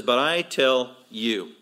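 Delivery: slow, pointed declaration; imitating Jesus addressing his hearers directly; turning on listeners. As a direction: give each word deliberate weight. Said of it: "he turns it on them".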